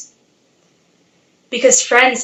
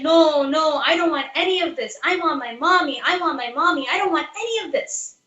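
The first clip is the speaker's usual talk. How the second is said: put-on crying child refusing; 4 semitones higher than usual. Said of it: "he refused everything. He said".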